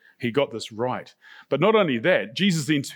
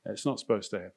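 stunned disbelief; 4 semitones lower, 8 dB quieter, faster than usual. Retold or imitated. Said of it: "I went".

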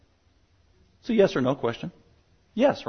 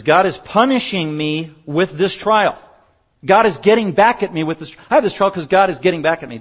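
imitating a bitter believer; 4 semitones higher, 5 dB louder than usual. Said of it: "they literally think the following things".

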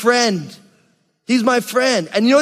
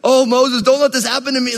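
mock plea; 4 semitones higher than usual. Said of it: "starts crying out like".

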